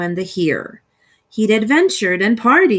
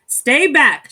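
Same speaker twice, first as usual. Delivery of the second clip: sharp loud warning; shouting; 4 semitones higher, 5 dB louder than usual. Acted. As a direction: push him away. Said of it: "shouted Bruce".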